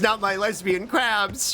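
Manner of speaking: slow high mock wail; hammed-up mourning for the crabs; mock despair; mock lament. Mock pleading.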